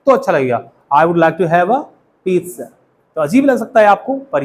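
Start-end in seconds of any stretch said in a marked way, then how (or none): 0.9-2.7 "pizza" as a light "peetsa"; light pronunciation. Shown as a demonstration. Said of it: "थोड़े lightly बोलेंगे". ("pizza" को हल्का "पीत्सा" बोलें)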